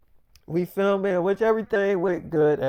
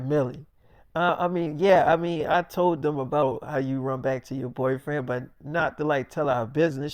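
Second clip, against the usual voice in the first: sheepish mumble; 7 semitones lower, 6 dB quieter than usual. Retold or imitated. David nervously explaining.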